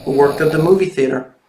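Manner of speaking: put-on lively storybook reading for kids; reading to children. A narrator's reading. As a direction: read it like a picture book to little ones. Reads picture book to children.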